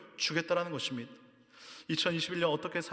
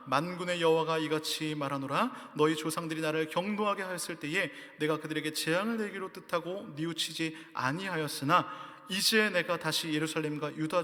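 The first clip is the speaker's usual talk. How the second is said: solemn, measured Bible reading; declaiming a passage from the pulpit; scripture reading. Acted. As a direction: read it out as holy scripture. Reads scripture aloud.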